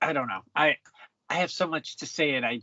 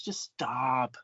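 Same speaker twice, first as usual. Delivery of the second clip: a mock whisper, exasperated; whispered plea; 4 semitones lower, 5 dB quieter than usual. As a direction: breathe it out unvoiced, begging them to stop. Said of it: "And it's just like".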